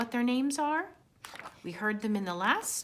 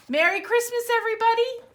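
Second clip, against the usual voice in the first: laughing; 13 semitones higher, 6 dB louder than usual. Real, not acted. Laughing festive sign-off.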